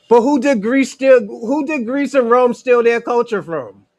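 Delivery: pressing the question hard and loud; loud challenge. Real, not acted. Host loudly challenging the caller on culture, forceful. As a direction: put it to him loud and heavy.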